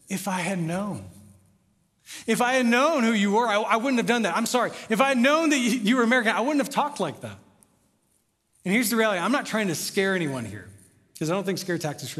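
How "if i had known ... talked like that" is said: raised, insistent voicing of regret; imagined regretful protest. Pastor's inner excuse to the American, raised protest. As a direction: voice his thoughts as an urgent excuse. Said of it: "what he's thinking in his head".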